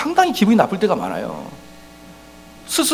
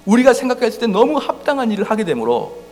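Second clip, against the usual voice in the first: ordinary delivery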